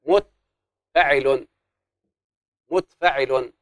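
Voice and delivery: drawn-out "متفعل" with every syllable stretched; teacher stretching the word; slow syllable demo. Shown as a demonstration. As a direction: spell out "متفعل" slowly, sound by sound. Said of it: "تصير هكذا".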